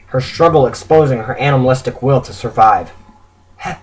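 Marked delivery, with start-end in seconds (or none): 3.6-3.7 weak, halting plea for help; faint raspy stutter; quiet rasp. A narrator's reading. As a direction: stammer it softly, barely getting the word out. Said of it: "she quietly rasps".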